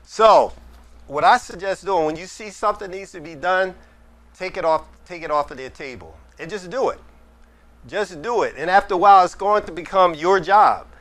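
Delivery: projected teacher voice. Real, not acted. Mentor advising a younger member before an audience, in a projected teacher voice. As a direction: speak up like a teacher addressing the room. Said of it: "I'll just use my teacher voice".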